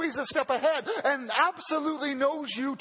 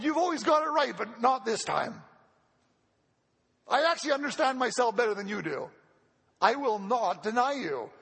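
emphatic vow. Retold or imitated. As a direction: retell Peter's insistence with light conviction. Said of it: "He says emphatically".

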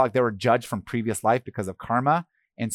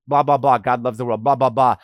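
dismissive; 5 dB louder than usual. Pretend. Mocking empty preaching.

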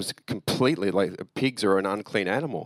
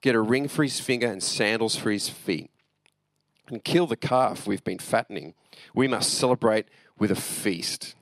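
steady, measured Bible reading; scripture reading. A narrator's reading. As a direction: read the parable clearly to the congregation. Pastor reads the parable aloud.

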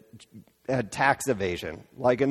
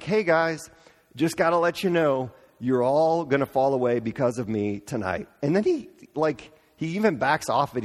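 casual PSA; 2 semitones higher than usual. Retold or imitated. Jesus telling disciples calmly like a public service announcement. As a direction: reassure the guys like a friendly notice. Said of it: "a public service announcement".

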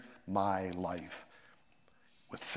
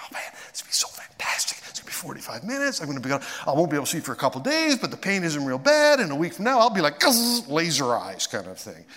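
eager anticipation; 4 semitones higher, 3 dB louder than usual. Retold or imitated. Imagined thoughts before surgery.

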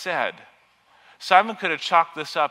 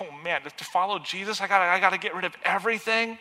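mock panic; 4 semitones higher, faster than usual. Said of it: "It's like".

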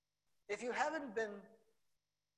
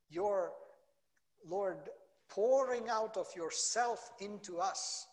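earnest spoken prayer, swelling louder on key phrases; closing prayer; 4 dB louder than usual. Acted. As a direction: pray over the congregation, fervent and building.

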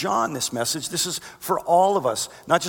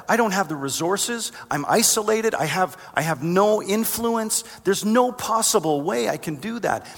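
excuses pitched well above usual; high-pitched protest; 6 semitones higher than usual. Acted. Believer listing excuses to God, protesting in a high voice. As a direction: plead the impossibility in a raised voice. Acted excuses to God's assignment.

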